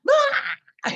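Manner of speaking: sudden high exasperated cry; frustrated outburst cry. Retold or imitated. Person with emotional outbursts crying out, exasperated. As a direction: let out a short yelp of overwhelm. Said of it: "you're like".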